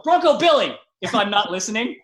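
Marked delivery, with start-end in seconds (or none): 0.0-0.8 calling out nickname. Retold or imitated. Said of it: "then they'll go".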